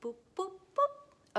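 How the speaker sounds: rising up to a high boop; teasing call climbing in pitch; playful sing-song hellos. Acted. Teacher opening with playful high hellos. Playful greeting sounds to start.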